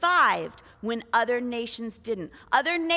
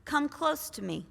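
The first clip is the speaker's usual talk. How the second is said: gentle invitation; 6 dB quieter than usual. Acted. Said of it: "Joseph said to his brothers".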